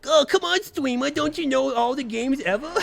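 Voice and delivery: high, loud mocking troll. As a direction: jeer like a taunting troll. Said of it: "your troll voice is so on point".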